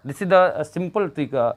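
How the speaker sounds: very slow, each word weighted; slow teacher emphasis. Shown as a demonstration. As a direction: spell out the rule deliberately. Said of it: "याद रखिएगा".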